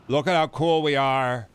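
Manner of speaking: slow, put-on boasting voice; mock braggart. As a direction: drag out the brag mockingly. Mocking soldiers showing off.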